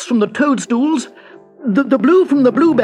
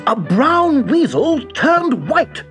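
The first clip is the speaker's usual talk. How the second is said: very high, loud, drawn-out amazement; high-pitched disbelief; astonished gasp; 12 semitones higher, 5 dB louder, slower than usual. A narrator's reading. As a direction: gasp it out slowly, squeaking with surprise. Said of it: "gasped Hugo".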